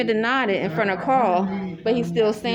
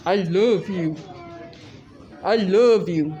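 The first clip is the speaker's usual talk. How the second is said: imitated deranged begging; slower than usual. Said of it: "that's exactly how it sounded like".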